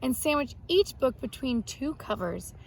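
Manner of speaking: lively storybook read-aloud for a class; reading to children. Acted. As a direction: tell it like a story for young kids. Teacher reads picture-book biography aloud.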